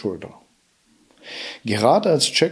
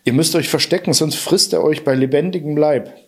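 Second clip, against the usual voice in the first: urgent warning; 4 semitones higher than usual. Acted. Harp warns of the giant.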